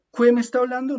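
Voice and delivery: "Cue" said high and loud, the U sounded; exaggerated silly "cue"; mock-silly wrong reading; mock wrong Spanish. Shown as a demonstration. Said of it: "en español nosotros no decimos cue".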